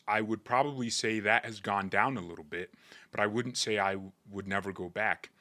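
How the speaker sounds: lightly imitated English footballer accent; a hint of a calm English footballer's accent; Harry Kane accent. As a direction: read the quote in a faint English accent. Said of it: "let me read it in his accent".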